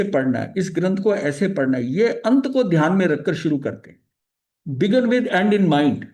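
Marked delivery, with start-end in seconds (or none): 4.7-6.0 slow, deliberate quoting. Shown as a demonstration. Teacher states habit in English.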